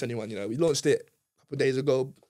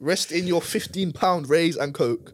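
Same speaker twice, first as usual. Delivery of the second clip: slow mocking; 3 semitones higher, much slower than usual. Mocking club prices.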